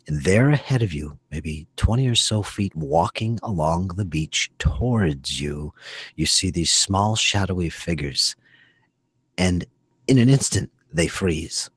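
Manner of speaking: slow, deliberate narration; unhurried tabletop storytelling; game master's scene setting. Acted. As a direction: draw out the scene with pauses.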